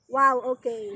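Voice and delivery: low, dry sarcastic wow. Shown as a demonstration. Unsure demo of the sarcastic impression, sarcastic. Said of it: "hindi I'm not sure kung ganito yung sarcastic".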